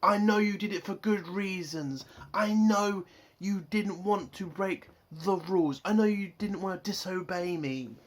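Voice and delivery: measured, repetitive mock lecture; plodding, over-deliberate imitation of a speech; mock boring speech. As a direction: drag out a dutiful captain's speech. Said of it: "boring ass speech".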